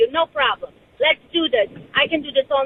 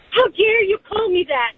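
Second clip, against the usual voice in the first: higher-pitched mock outrage; imitated indignation; 4 semitones higher than usual. Caller mimics her offended accusers, mock indignant. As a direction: act out someone beside themselves. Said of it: "They get besides themselves".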